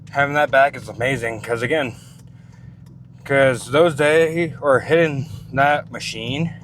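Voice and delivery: out of breath after the gym; talking while still catching breath; winded. Real, not acted. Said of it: "sorry that I'm winded out".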